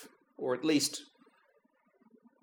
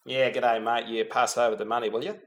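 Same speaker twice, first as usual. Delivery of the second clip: lightly put-on Australian accent, lower; mock Australian accent; 6 semitones lower than usual. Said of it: "those two Australians".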